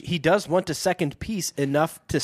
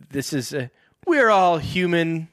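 fake human; 2 semitones higher than usual. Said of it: "talking like humans do".

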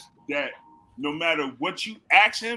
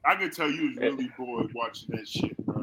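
mock shout; 9 semitones higher, 6 dB louder than usual. Mock argument about the match.

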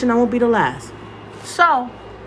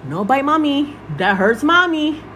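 mom voice; 3 semitones higher, slower than usual. Retold or imitated. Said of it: "my mom voice".

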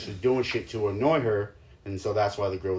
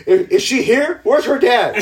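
loud, high comic outrage; riled-up protective stepdad; 13 semitones higher, 11 dB louder than usual. Retold or imitated. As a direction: demand answers, half laughing. Stepdad riled about the bullying girl.

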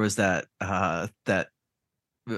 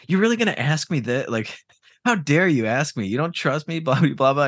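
indignant wife; 4 semitones higher than usual. Retold or imitated. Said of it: "she's like".

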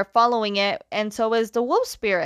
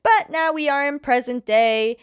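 higher, lightly announced scene change; dramatic scene transition; 5 semitones higher, 4 dB louder than usual. Pretend. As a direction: announce the return with mock drama. Dramatic transition back to present.

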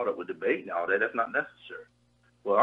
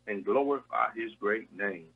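fervent prayer. Real, not acted. Minister praying over the radio for a sick caller's healing. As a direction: pray over her healing with conviction.

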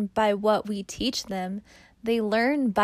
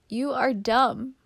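put-on halting, reluctant insult to one's own child; mildly pained, addressed to a child; speaking to daughter; 3 semitones higher than usual. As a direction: say it carefully, as if it hurts to tell her. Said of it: "Read these off as if you are speaking to Lena".

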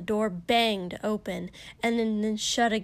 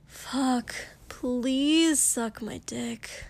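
begging; 3 semitones higher, much slower than usual. Acted. Denki begs.

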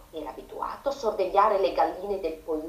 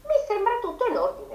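rooster exclaiming; 11 semitones higher than usual. A narrator's reading. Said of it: "esclamò".

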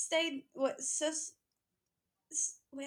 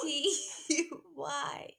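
spelling it out; 3 semitones higher, slower than usual. Pretend. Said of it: "In the spelling voice".

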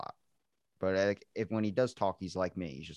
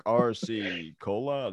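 mock order; much slower than usual. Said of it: "I'm like".

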